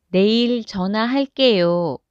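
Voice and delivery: usual speaking voice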